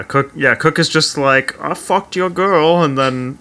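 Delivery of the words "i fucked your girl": imitating Cook's English accent. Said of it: "That is a perfect, perfect accent".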